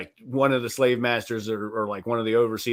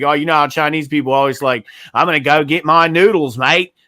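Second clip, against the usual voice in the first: terrible Chinese accent impression; 7 dB louder than usual. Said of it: "It's a terrible impression".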